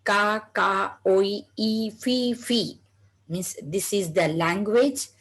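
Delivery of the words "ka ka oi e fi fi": mock parrot chatter, lightly voiced; parrot squawks. Shown as a demonstration. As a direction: imitate a parrot's bird language for the class. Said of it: "in which language parrot says".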